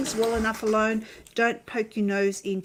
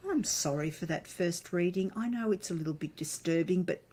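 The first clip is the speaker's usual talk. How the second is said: kindergarten teacher voice. Acted. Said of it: "She's put on her kindergarten teacher's voice".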